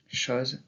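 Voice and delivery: chose with an open O; "chose" with its vowel opened up; southern French open O. Shown as a demonstration. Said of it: "Même dans le français parlé dans le Sud".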